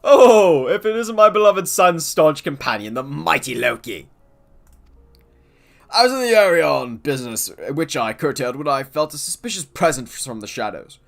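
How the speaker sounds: put-on booming, theatrical old gentleman; hearty nobleman voice. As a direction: play a jovial pompous father. Voices Godbert.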